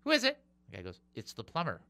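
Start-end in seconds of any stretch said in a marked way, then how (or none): 0.0-0.4 high-pitched parrot call. Acted. Parrot answers the plumber's knock, high piping voice. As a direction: chirp it like a talking bird. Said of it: "The bird goes".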